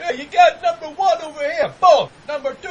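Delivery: high, loud commentator impression; John Madden. Podcaster imitating a commentator counting the chart, high sportscaster voice. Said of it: "that's as good John Madden".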